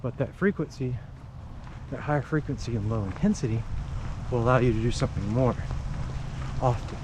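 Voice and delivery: talking while running; a little out of breath from running; while jogging. Real, not acted. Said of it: "Like right now, if I didn't have a habit of running, I would not be out here in the rain".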